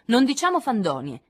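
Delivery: grido feroce e più forte; gridato. Acted. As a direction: urla feroce contro la bugia. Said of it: "gridò Joe". (Jo grida ad Amy, feroce)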